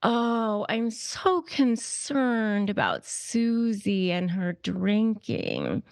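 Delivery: slow, syrupy mock worry; a lightly voiced busybody faking sympathy; fake concern. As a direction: drag it out like a gossip pretending to care. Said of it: "smear people in terms of care".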